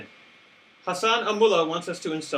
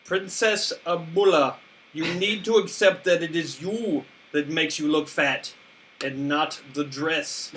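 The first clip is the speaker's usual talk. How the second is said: put-on Middle Eastern accent. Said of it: "Who does a Middle Eastern accent".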